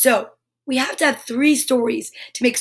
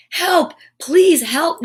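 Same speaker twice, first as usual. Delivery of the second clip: raised call for help; Noddy calling out for help, a touch louder; 4 semitones higher, 4 dB louder, much slower than usual. Acted. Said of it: "Noddy called out".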